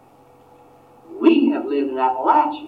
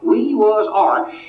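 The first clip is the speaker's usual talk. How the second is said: put-on old mountain man saying we was Irish, Appalachian twang, higher and slower; Appalachian dialect quote; 7 semitones higher, slower than usual. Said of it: "in that dialect".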